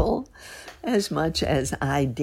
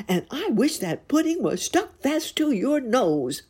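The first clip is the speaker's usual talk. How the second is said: raging scold, building higher; a husband losing his temper at his wife; angry Pedro; 4 semitones higher than usual. Acted. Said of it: "he cried".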